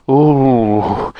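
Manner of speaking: long shivery "ooh"; shivering "ooh". A narrator's reading. Moonface stands out in the snow, shivering. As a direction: groan as if chilled by the cold. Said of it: "shivered Moonface".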